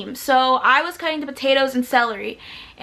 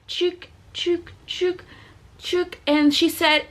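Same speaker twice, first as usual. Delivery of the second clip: chopping sound effect; 3 semitones higher, 3 dB quieter than usual. Shown as a demonstration. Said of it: "So I'm cutting it, like".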